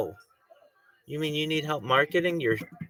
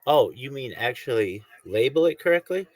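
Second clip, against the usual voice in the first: mock exasperation; 5 semitones higher than usual. Mock argument with host.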